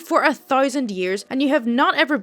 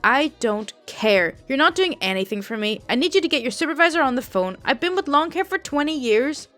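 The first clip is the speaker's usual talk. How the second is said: louder, mock-furious old lady; angry customer; 2 semitones higher, 4 dB louder than usual. Rude old customer insults the call center agent, loud and angry. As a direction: snap at the agent, lightly voiced old Italian woman. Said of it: "elderly Italian lady and clearly a smoker from her voice".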